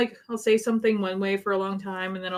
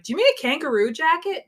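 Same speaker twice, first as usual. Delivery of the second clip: puzzled Albertan; 9 semitones higher, 7 dB louder than usual. Retold or imitated. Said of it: "odd Albertan one who was like".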